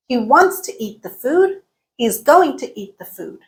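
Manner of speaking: WANTS, GOING, EAT, FOOD stressed, rest squeezed; stressed and reduced syllables. Shown as a demonstration. Teacher showing stress timing, small words reduced. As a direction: keep the beat, squash "to" and "the". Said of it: "we reduced the rest".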